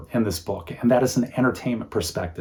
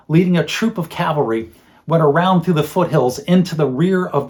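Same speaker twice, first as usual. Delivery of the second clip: grand, solemn chronicle narration; archaic medieval chronicle. Shown as a demonstration. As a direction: read it like an old medieval chronicle. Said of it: "an example of what that voice is like".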